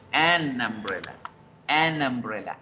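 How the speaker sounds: "An umbrella" with the n leaning into the vowel; linked article. Shown as a demonstration. Teacher models fluent linking, "An umbrella" joined at the n. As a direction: run "An" into "umbrella" as one word. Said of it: "para respetar el orden de la fluidez".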